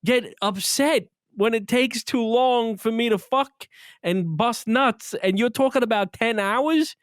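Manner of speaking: "are you kidding me", pitch alto e incredulo; incredulous retort to wife. Retold or imitated. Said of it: "I'm like".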